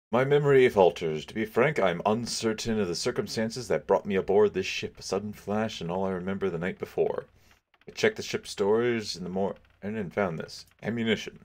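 reading captain's lines. Acted. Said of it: "This is Mister Hobson here".

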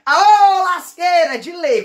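high yell that fades away; dad shouting along to the music; party shout. Retold or imitated. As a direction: holler at the old country song. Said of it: "meu pai já manda aquele grito".

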